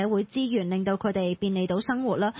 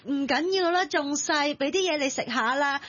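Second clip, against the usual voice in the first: higher, lightly acted coddling mum; indulgent mother; 4 semitones higher than usual. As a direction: reassure a child you are spoiling. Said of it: "會縱壞小朋友嘅媽媽". (扮縱仔媽媽高聲氹人)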